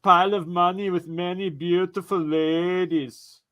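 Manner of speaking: put-on Austrian action-star accent; mock action-hero voice; Arnie. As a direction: boast like an Austrian muscleman. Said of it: "can you do the audio impression?".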